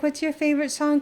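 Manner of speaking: bright high-pitched eager asking; excited high question. Retold or imitated. Friends repeat question.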